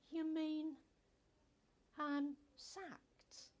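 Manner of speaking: high, loud, stunned question; can't believe she's been fired; shocked disbelief. Acted. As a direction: worker hearing she's sacked, high and shocked. Shocked at being dismissed.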